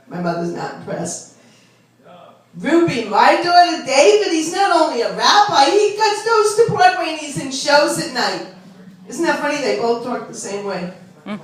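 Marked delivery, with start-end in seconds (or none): 2.6-8.5 raised, bragging yenta voice; mock boast at the beauty parlor; gossiping Long Island mother. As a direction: brag about the rabbi son. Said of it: "This is how they really talk".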